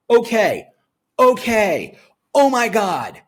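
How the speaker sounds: loud, delighted oh my God; excited okay. Real, not acted. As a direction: let the excitement burst out. Excited reaction to copy.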